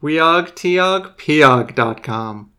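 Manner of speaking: slow incantation, each word spaced; magic words. Shown as a demonstration. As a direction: chant it slowly like a spell. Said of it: "using the magic words".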